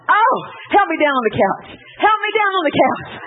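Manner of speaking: nearly faint with happiness; overwhelmed joy. Retold or imitated.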